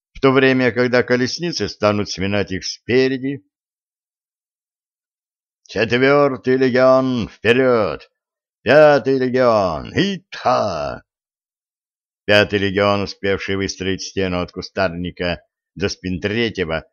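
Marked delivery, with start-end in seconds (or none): 5.7-11.0 barked commands. Acted. Commander shouts battle orders.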